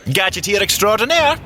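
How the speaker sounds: high, proud flourish; showy self-introduction. Acted. Fitz butting into the log, grandly showing off. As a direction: announce yourself like a showman.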